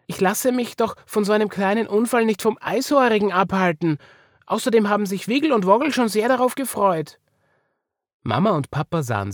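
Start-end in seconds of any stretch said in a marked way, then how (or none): 0.1-7.2 put-on high, insistent child voice; plucky child pleading her case; determined little girl. A narrator's reading. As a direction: protest eagerly, pitched up. Marie protests to her parents.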